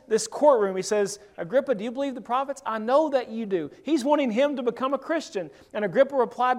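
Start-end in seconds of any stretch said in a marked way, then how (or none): 1.4-3.7 quicker, pressing plea to the king; fast, insistent question; urgent appeal. Retold or imitated. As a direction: push the question home, fast. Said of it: "Right here in the middle of this".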